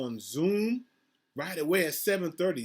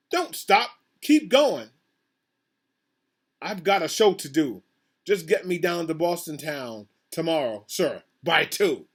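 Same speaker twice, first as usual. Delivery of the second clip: screamed; 4 dB louder than usual. Acted. Circus boss screaming at the captain to keep going. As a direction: bellow the order at the captain. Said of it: "and screamed".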